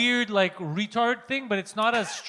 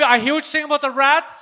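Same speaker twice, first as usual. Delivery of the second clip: higher-pitched imitation of a friend; mock voice, playing the understanding pal; friend impression; 5 semitones higher, 4 dB louder than usual. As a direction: put on his voice, pitched up. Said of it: "That's my impression of him".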